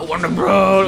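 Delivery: Bull's catchphrase voice. Retold or imitated. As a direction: mimic the brawler's taunt. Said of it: "con quel tono suo".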